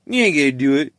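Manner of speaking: a lightly voiced taunting chat viewer, level; first taunt from the chat, only a hint of mimicry; mocking chat voice. Quoting the stream chat egging him on, mild mock taunt. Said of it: "your chat is telling you".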